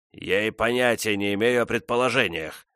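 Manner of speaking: grumbled. A narrator's reading. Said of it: "проворчал он".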